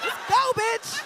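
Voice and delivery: hyped-up rallying cry. Retold or imitated. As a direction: hype everyone up, imitating him. Acting out hyped-up cast mate.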